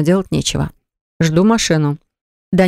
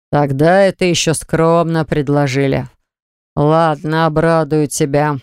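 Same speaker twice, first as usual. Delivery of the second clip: slow, heavy, commanding father; deliberate, cold fatherly pronouncement; slow stern father; slower than usual. Acted. Father voices slow menace.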